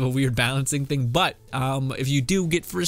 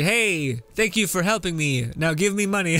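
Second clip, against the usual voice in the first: mock game company; 4 semitones higher than usual. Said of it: "It's a weird celebration. It's like".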